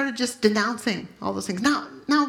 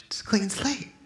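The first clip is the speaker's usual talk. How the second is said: God's gentle words. Retold or imitated. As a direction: breathe it like a tender secret.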